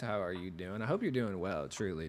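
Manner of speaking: smooth radio host greeting; NPR radio voice. Acted. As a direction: open like a public radio host. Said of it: "Do you guys like my radio voice?".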